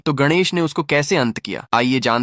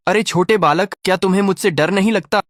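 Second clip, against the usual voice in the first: roaring demoness; 7 semitones higher than usual. A narrator's reading. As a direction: roar it down at the little child like a monster. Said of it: "जोर से गरजते हुए बोली".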